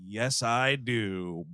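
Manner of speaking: slow, low heroic reply; lightly imitated grim movie hero; Fishburne. Hero answers Sam Neill before detonating, mock resolute. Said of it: "And he goes".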